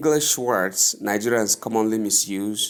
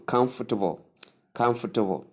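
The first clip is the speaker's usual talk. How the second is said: COMFORTABLE as KUMF-tuh-bul; softened later syllables; faster than usual. Shown as a demonstration. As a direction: stress the start of "comfortable", swallow the rest. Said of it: "It's suppressed a bit".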